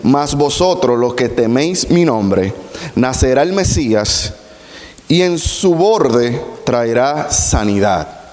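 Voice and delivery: slow, measured Bible reading; solemn reading of scripture. Acted. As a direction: read the verse with weight. Rereads verse with corrected words.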